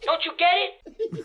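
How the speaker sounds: drawn-out taunt; slow taunting. Acted. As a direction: taunt slowly. Prank caller taunts.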